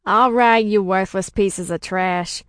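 loud, harsh order from a guard; shouting guard. A narrator's reading. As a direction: shout it contemptuously, starting loudest. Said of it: "shouts a peacekeeper".

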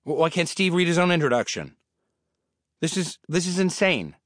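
rising outraged disbelief; can't believe he has to read it; indignant disbelief. Acted. Indignant at reading Carell's intro.

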